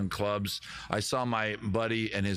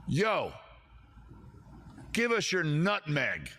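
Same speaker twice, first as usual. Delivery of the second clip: mock gangster; 4 semitones higher, slower than usual. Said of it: "What's a Hartford, Connecticut gang do".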